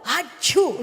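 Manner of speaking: loud sneeze. Shown as a demonstration. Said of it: "really loud".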